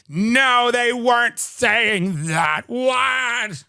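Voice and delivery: slow, put-on incredulous liberal; mock disbelief. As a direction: draw out the denial in mocking disbelief. Mocks liberals reacting in disbelief.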